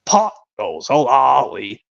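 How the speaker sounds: drawn-out storybook reading with sing-song swells; children's story narration. Acted. Fan reciting a Thomas episode, storybook narrator voice.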